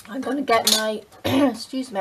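hoarse, croaky voice from a sore throat. Real, not acted. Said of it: "I've still got a sore throat and a croaky voice".

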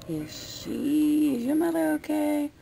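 imitating a worried grandpa, pitch jumping high; concerned grandpa. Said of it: "Grandpa was concerned about you".

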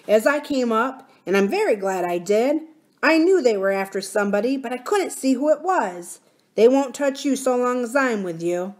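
put-on plucky boy reassuring strangers; lightly voiced miner boy. Miner boy protecting nurse and princess from goblins, confident.

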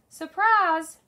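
high, loud call of surprise; shout. A narrator's reading. Brew surprising P J on his walk home, shouted. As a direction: call it out big and drawn out. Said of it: "Brew shouted".

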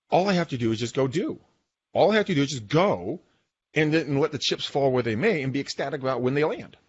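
like a lightbulb just went on, Scottish-book epiphany; excited realization. Retold or imitated. Retelling his own epiphany to a podcast co-host, excited gasp. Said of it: "I'm like".

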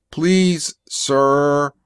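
high, evenly held robotic plea; infantile robot pleading. A narrator's reading. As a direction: tack on a childlike machine's plea. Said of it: "so he added another".

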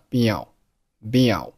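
"be out" glided together, final t unreleased; linked words. Shown as a demonstration. Teacher demonstrating for learners, linked "be out". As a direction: run "be" straight into "out" without releasing the t. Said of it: "be和out连读成了".

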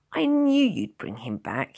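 loud, slow, intense declaration; fierce. A narrator's reading. Tearful boy to the man who rescued his friend, fierce. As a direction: say it fiercely, drawing it out. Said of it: "he said fiercely".

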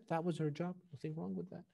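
the Imam calmly answering an insult to his mother. A narrator's reading. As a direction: brush off the insult gently. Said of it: "So he very calmly said".

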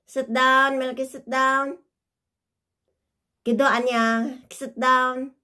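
loud, firm sit commands. Real, not acted. Mother orders the dog to sit, loud and firm.

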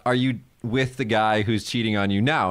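gentle, kindly asking. Retold or imitated. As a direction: ask her kindly. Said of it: "very kindly".

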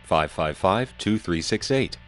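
clean telephone line voice; carbon mic phone. Shown as a demonstration. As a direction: speak through an old carbon phone. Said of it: "Here's how it is with a carbon mic".

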